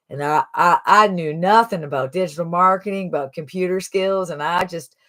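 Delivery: imitating a folksy Southern accent; Jimmy. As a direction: lightly mimic a Southern Alabama testimonial. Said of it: "He talks real nice and slow with an accent".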